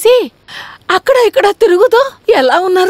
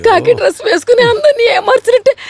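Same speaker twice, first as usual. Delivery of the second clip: hammed-up wailing. Wife's melodramatic weeping accusation.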